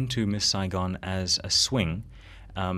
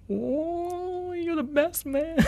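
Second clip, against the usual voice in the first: impressed dude voice; much slower than usual. Retold or imitated. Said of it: "you'd see this guy face like".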